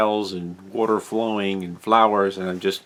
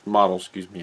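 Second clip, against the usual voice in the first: talking through hiccups; hiccuping between words. Real, not acted. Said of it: "I've got the hiccups now".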